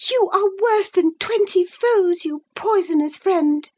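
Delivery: put-on a lovestruck girl digging in; infatuated girl. Isabella defying Catherine, high and stubborn.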